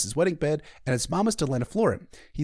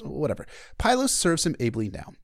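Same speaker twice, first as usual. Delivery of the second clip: normal talking voice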